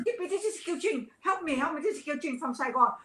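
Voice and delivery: half-cry help me; begging the actress for help, a hint of retold crying; retold crying plea. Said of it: "I was crying like mad".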